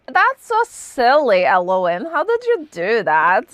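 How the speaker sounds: a light mock Russian accent. Retelling how the narrator voiced Elwyn, light mock Russian accent. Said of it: "It was very Russian".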